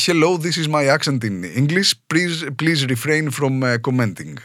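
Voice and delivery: slow English in his Trikala Greek accent; plain Greek-accented English, slow and halting; his own Greek accent. Shown as a demonstration. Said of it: "αν το πω κανονικά".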